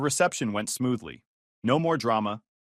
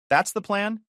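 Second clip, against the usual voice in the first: high, disbelieving question; can't believe what he's hearing; incredulous; 8 semitones higher than usual. Acted. Incredulous groom confronting ex.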